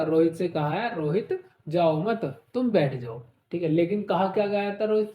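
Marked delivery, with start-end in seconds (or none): 1.0-3.2 group जाओ मत, lift it, drop on तुम बैठ जाओ; break after मत. Shown as a demonstration. Teacher explains what Rohit understood, breaking after मत. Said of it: "रोहित को क्या लगा?".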